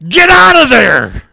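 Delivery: full-force high yell, stretched out; alarmed warning shout. Retold or imitated. The speaker warning a friend as a cow charges, alarmed shout. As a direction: yell a drawn-out warning at the top of your voice. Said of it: "my first reaction was".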